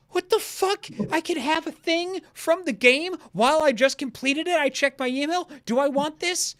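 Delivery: high, loud incredulous squeal; excited disbelief. Retold or imitated. Gamer retelling her shock at the merch offer, high and excited.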